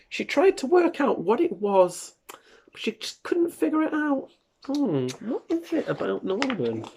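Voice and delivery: hushed storyteller whisper. A narrator's reading. Parent whispering the puzzle to a child. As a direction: breathe the words like a secret. Reading mysterious moment in whisper.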